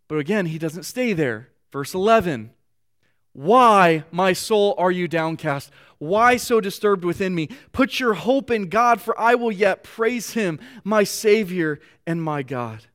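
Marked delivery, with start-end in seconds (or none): 3.3-12.8 earnest, rising reading of a psalm; scripture reading. Acted. Pastor reads the psalm to his congregation, earnest. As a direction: read the verse as a heartfelt plea.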